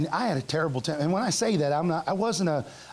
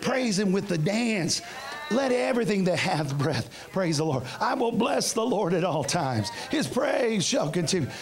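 scripture reading. Acted. Preacher reads the psalm aloud to the congregation, solemn and measured.

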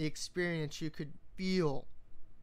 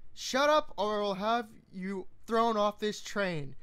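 loud, higher, snapping threat; angry male shout; 4 semitones higher, 4 dB louder than usual. A narrator's reading. Man on the train shouting down the woman planning the party, loud threat. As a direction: shout him down before he's thrown off. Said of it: "came the male voice again".

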